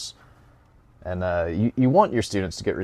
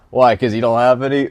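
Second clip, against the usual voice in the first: laughing roast; 4 semitones higher, 11 dB louder than usual. Real, not acted.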